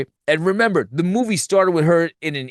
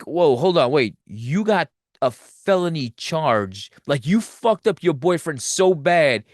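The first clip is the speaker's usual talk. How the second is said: incredulous reaction; 2 semitones higher than usual. Retold or imitated. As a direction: act out a stunned viewer calling her out. Stunned audience reacting in retelling.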